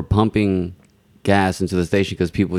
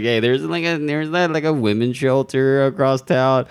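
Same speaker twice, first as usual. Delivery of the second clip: middle-aged white woman; 7 semitones higher than usual. Retold or imitated. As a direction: parody a prim well-meaning lady. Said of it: "acting like a middle-aged white woman".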